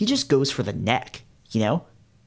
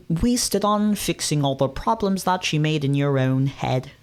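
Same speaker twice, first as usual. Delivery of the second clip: put-on botched British accent; 2 semitones higher than usual. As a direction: try a British accent and miss. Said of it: "I can't do a British accent".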